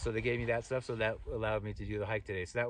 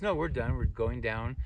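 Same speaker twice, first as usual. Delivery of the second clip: raised, louder retold insistence; insistent reassurance; 2 semitones higher, 5 dB louder, slower than usual. Hiker handing over his pole, insistent reassurance.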